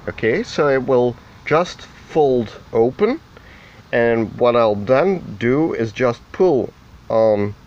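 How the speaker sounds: muffled by mask. Real, not acted. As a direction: voice muffled through a dust mask. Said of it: "if my voice sounds a bit muffled".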